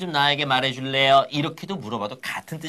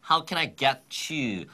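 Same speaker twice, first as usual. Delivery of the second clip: slow model phrase; 2 semitones lower, much slower than usual. Shown as a demonstration. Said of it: "그 다음 용건은 뭐였죠".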